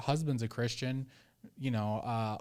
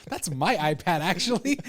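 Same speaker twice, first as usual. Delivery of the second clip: louder mock-annoyed correction; exasperated parent; 4 semitones higher, 5 dB louder than usual. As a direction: set the kid straight, playfully indignant. Acts exasperated parent to the kids.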